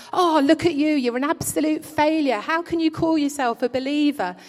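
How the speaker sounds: a hint of a condemning preacher; mock scolding. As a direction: play a harsh judge tearing into him. Imagined harsh God scolding Elijah.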